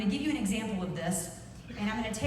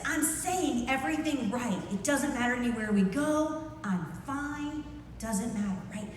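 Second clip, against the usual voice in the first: drawn-out, higher, unconvincing reassurance; insincere fine; 3 semitones higher than usual. Shown as a demonstration. Speaker shows mismatched words and tone, insincere fine. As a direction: say it's fine without meaning it. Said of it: "my words and what I was saying do not add up".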